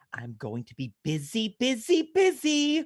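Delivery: very slow, excited, drawn-out, rising sing-song exclamation. Retelling the magician's line after Santa scolds him: imitating the excited Frosty the Snowman magician. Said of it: "he's all excited and he's like".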